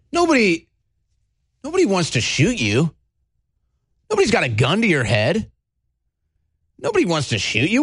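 falsely reassuring bully, pitch swooping into insistence; mock menacing enforcer. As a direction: coax with a veiled threat, stretching key words.

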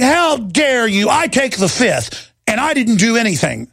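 sneering imitation of an official's protest; mocking Lois Lerner. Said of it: "Lois Lerner going".

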